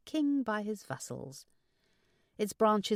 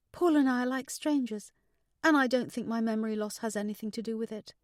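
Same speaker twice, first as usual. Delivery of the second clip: higher-pitched daughter, confiding; troubled daughter; 5 semitones higher, 5 dB louder, faster than usual. Acted.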